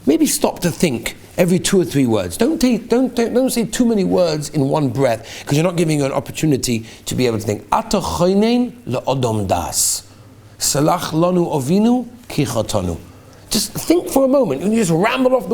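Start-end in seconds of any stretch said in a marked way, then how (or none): 0.1-7.7 slow advice quote. Acted. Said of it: "He says". 7.7-13.0 slow, word by word: "Ata choinen le'odom das"; measured, unhurried prayer words; slow prayer demo. Shown as a demonstration. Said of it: "Say the word slowly".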